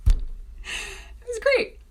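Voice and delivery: high, slow, breathy sarcastic "great"; sarcastic squeak. Real, not acted. Sarcastic aside, then repeated.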